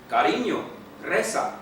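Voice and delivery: a loud firm command to the horse. Acted. Rider ordering his horse to kneel, loud command. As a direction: order the stallion down with authority. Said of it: "he commanded".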